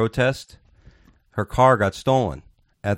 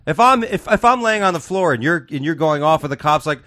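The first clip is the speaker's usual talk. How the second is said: mock exasperation; 8 semitones higher than usual. Mocking friend on floor.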